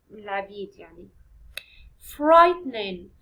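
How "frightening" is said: louder, slower model word for the class; loud teacher modelling. Shown as a demonstration. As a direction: call the word out clearly to the class. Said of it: "So it's three syllables".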